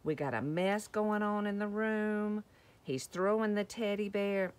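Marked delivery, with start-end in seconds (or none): 0.0-2.4 exasperated daddy. Acted. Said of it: "Look at Daddy going".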